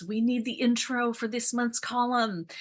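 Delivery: high-pitched, mock nagging voice; nudging team. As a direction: playfully imitate a team pestering you. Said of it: "the team nudging me always".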